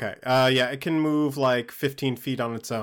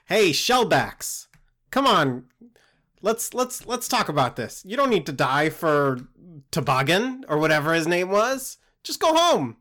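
pleading shout across the room; calling out to goblins; 3 semitones higher than usual. Acted. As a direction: yell out to rally them, mildly. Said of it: "I'm gonna yell out to those other goblins".

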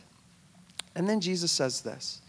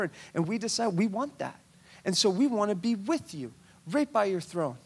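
1 eager pleading; 2 semitones higher than usual. Acted. Eager brothers ask for thrones.

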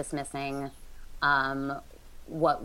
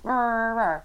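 mock cheer; 6 semitones higher, 5 dB louder than usual. Mocking cheerleader pep talk.

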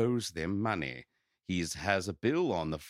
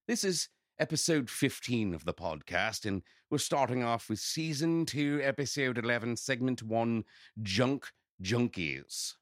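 sultry host voice, lightly voiced; purring show intro, a hint of vamp; femme fatale; 4 semitones higher than usual. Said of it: "I'm not gonna do a weird voice".

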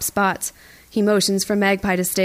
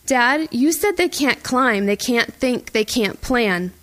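higher, slowed, pleading disbelief; cling to what dad promised; desperate protest; 4 semitones higher, slower than usual. Acted.

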